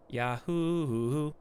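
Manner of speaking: "Yahoo!" with the hoo stretched and bounced like a yodel; mock ad yodel. Mocking the Yahoo ad by yodeling "Yahoo!". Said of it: "nobody goes".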